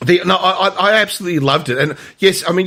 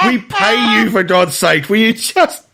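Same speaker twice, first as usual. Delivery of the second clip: higher-pitched, eye-rolling protest; mock exasperation; 7 semitones higher than usual. Imitating Renato scolding his paid butler, mock exasperation. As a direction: plead like a fed-up employer. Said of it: "rolls his eyes".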